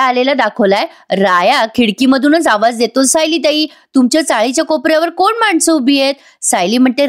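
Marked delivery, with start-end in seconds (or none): 3.0-6.1 calling out. Acted. Raya calling from the window.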